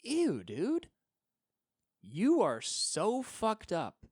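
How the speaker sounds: loud, high, slow disgust; disgusted outburst. Real, not acted. Comic ranting at the model, loud and disgusted. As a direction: recoil and let it rip.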